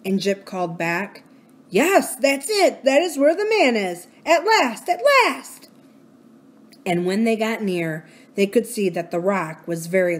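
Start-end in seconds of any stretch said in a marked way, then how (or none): 1.7-4.1 eager dog voice. Acted. 4.2-5.7 high, ringing at last, at last; joyful dog cry. Acted. Dog finds the scent.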